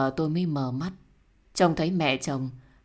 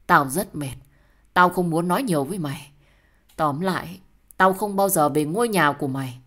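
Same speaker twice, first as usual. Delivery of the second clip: loud, firm refusal; angry, fed up; 5 dB louder than usual. Acted. Refusing to return to the partner's house, angry. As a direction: shut the argument down forcefully. Acted quarrel, breaking off with partner.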